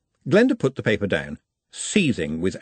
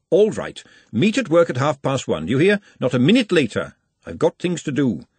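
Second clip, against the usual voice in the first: a hint of a bossy cook; lightly voiced Glenda giving orders; 4 semitones higher than usual.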